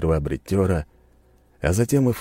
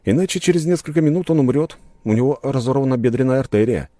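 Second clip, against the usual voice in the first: smirking advice; 8 semitones higher, 4 dB louder than usual. A narrator's reading. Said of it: "усмехнулся я".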